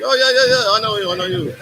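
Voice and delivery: lightly voiced excited friend; imitating Ferry. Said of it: "Ferry, he's like".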